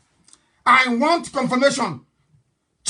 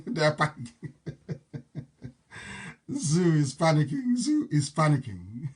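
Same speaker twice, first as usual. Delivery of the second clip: laughing gloat; 5 semitones lower, 5 dB quieter than usual. Real, not acted. Gloating over rivals, laughing.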